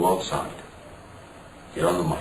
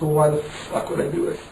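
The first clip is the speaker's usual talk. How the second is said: exasperated, higher and louder mock rant; reliving the fury at a stupid idea, pitched up; retold angry outburst; 6 semitones higher, 5 dB louder than usual. Retold angry refusal to Bischoff.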